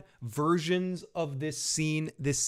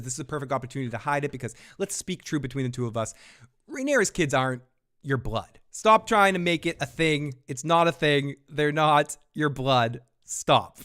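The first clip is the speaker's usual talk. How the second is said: mock angry scolding; 3 dB louder than usual. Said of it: "and she says".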